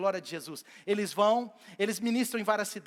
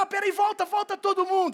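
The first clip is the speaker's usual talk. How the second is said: high, louder call to return; calling back; 10 semitones higher, 6 dB louder than usual. Acted. Jesus summoning disciples to return, high loud call.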